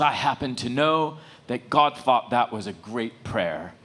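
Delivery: slow, lightly voiced kindly old man; measured reassurance, a hint of an elder; elderly man. Elderly man tells the little boy, slow lightly acted reassurance. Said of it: "then this elderly man approaches".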